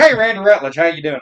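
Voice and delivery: high-pitched hillbilly self-introduction; Randy Rutledge. Retold or imitated. Cousin greets someone new by his full name, country character voice. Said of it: "He's like".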